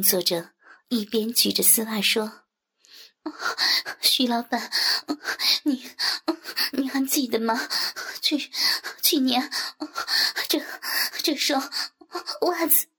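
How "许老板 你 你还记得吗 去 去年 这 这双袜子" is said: halting, climbing higher and higher; stammering. Acted. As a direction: stop and start between the words. Stammering during sex.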